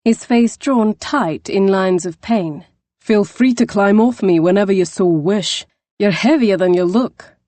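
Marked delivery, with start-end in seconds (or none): 3.0-7.4 dry gruff retort. Acted. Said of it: "The burly Scot glared up".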